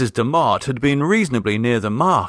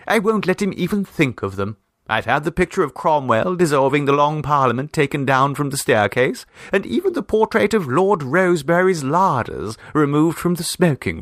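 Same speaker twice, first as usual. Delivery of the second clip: lightly raised, fussing society lady; chatty hostess; 4 semitones higher than usual. Acted. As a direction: rattle on like a well-meaning hostess. Mrs Demotte chatters on at length.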